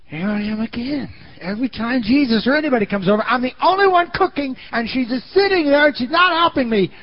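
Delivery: high, indignant grumbling, rushed at first; resentful complaint. Retold or imitated. Martha alone in the kitchen resenting her sister, high indignant grumble. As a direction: stew about doing all the work.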